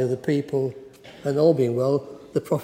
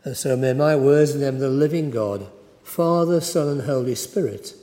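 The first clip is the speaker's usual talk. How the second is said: prayer. Acted. Preacher blessing his words before preaching, lightly intoned.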